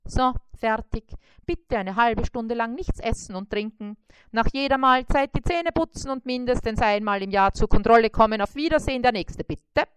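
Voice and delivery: a hint of a brisk, jolly dentist. Mosquito dentist greets and examines the spider, lightly voiced.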